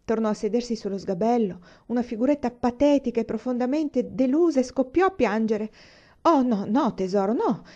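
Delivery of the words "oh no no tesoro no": flustered rush to comfort; hurried soothing protest; embarrassed exclamation. Acted. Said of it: "esclamò imbarazzata". (esclamazione imbarazzata)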